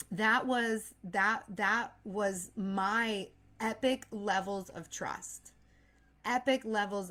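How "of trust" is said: whispered. Real, not acted. Trailing whisper.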